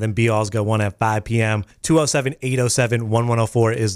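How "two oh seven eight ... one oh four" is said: phone number read. Shown as a demonstration. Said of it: "reads the phone number".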